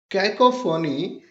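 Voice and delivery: कैकोफोनी said slowly, syllable by syllable; slow clear model word. Shown as a demonstration. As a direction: spell out कैकोफोनी slowly for the class. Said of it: "देखिए, जो शब्द है". (धीरे से बोला गया कैकोफोनी)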